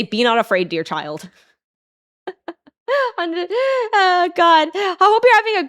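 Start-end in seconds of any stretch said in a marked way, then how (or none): 0.0-1.3 angel voice. Pretend. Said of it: "hover you over, over you like that and say".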